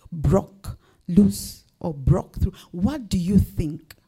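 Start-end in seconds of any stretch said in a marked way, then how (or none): 0.1-2.5 slow, hushed whisper of a question. Real, not acted. Preacher whispering a searching question to the congregation. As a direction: lean in and breathe the question slowly.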